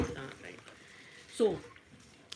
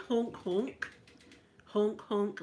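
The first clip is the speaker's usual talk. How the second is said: mock honk; much slower than usual. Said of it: "he said".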